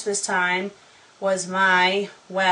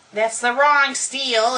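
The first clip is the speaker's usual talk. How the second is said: ordinary delivery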